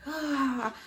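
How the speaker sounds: high drawn-out groan, retold; pained sigh. Mother retelling her labour contractions, pained groan. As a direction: let out an imitated high "ah" of discomfort.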